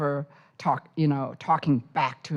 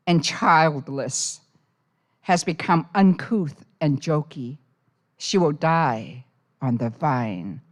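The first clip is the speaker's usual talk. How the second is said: measured poetry reading; live poetry reading voice; poem reading. Acted. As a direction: read it as a poem to the room.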